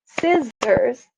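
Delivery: Scissors in two separated beats, Scis-sors; syllable by syllable. Shown as a demonstration. Teacher showing any word works, Scissors beat by beat. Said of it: "that's another two beats".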